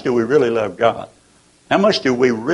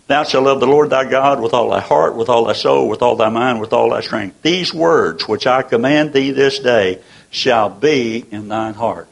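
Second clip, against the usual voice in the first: scripture reading. Acted. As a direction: read the verse with reverent weight.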